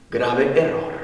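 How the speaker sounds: low and soft, sober warning; grave, hushed verdict. Real, not acted. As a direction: drop the voice for a sober judgement. Same verdict said softly, then raised.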